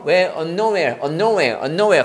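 "unknowhere" as one joined word; linked pronunciation. Shown as a demonstration. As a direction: run "unknown" into "where" as "unknowhere". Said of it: "같이 다 붙여 읽어야 됩니다".

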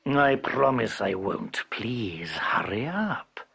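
a hungry tiger pressing, slowly; tiger figure. Acted. Tiger voiced in tale.

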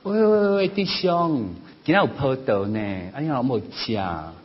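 high, calling granny voice; kindly granny. Retold or imitated. Kind old granny at church offers grapes to a brother, high calling voice. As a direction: call out to him like a friendly grandma. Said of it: "一个好心的阿嬷就说".

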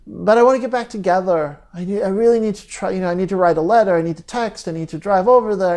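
rushed, tumbling pleas, fast; desperate pleading. Retold or imitated. Someone after a breakup, urgently listing ways back, rushed. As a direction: rattle off the urges to reach out. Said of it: "many people will say".

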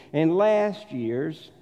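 slow, drawn-out southern accent. Real, not acted. Preacher slipping back from telling a joke, southern accent. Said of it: "get my southern accent back out of the way".

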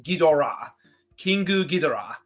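every syllable of Ghidorah sounded out; Japanese pronunciation. Shown as a demonstration. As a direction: say Ghidorah and Kingu Ghidorah as written in Japanese. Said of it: "it's written out in Japanese is".

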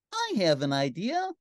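put-on high storybook child voice; little girl. Girl in the story has an idea, high voice. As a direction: lift it into a child's eager voice. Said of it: "said the little girl".

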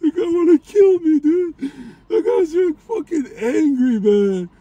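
high, breathless excitement; excited. Real, not acted. Excited after blower stunt.

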